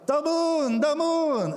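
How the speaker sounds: put-on high, wide-eyed toddler calling out; dad imitating his toddler spotting the moon; little son's voice. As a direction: call it out like an amazed toddler at the window. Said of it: "that's how he sounds, he's got an accent".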